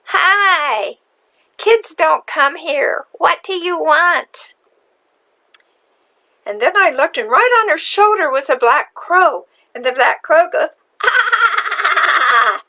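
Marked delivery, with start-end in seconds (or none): 0.1-4.5 a hint of a high old witch voice, slow; a witch unimpressed by a visitor, slowly; lightly voiced witch. Narrator voicing the old woman at the door, a hint of a witch. 11.0-12.6 crow caw. Retold or imitated. The black crow on the witch's shoulder, a high squawk.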